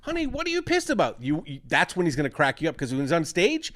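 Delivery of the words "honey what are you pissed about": much higher mock husband voice; hammed-up high husband to wife; imitating Bill Burr to his wife. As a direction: squeak it up like a whiny husband. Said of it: "When he's talking to his wife".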